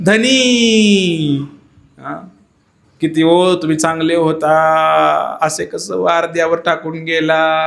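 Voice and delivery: a widow wailing over her husband, slowing down; wife's wailing lament. Acted. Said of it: "बायको ओरडायला सुरू केली".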